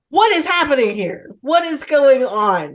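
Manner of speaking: retold bewilderment, stretched at the end; baffled reaction.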